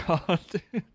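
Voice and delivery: loud, high whiny protest; mock strop. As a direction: act out a tantrum of giving up. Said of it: "I had a bit of a strop".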